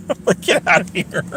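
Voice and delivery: laughing whisper. Real, not acted. Laughing repeat of sign-off.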